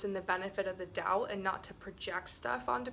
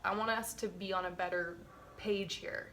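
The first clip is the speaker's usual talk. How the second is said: calm confrontation demo. Shown as a demonstration. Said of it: "and then I'll be like".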